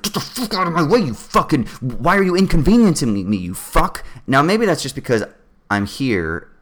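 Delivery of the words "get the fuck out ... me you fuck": mock angry Sydney driver. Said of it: "the Sydney one is like".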